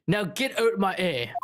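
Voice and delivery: attempted Cockney governor; Cockney accent. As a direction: dismiss them in a loose Cockney. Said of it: "what accent is he speaking".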